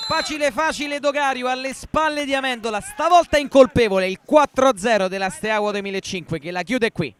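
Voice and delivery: excited goal commentary. Real, not acted. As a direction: punch out the goal call. Live goal call, fourth goal.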